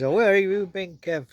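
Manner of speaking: retold girl's bossy question; mock scolding. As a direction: mildly scold someone who kept you waiting. Little girl scolding his brother, retold.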